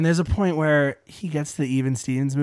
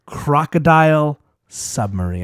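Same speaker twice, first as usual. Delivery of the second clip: over enunciating; slower than usual. Shown as a demonstration. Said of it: "I'm gonna say this very slowly".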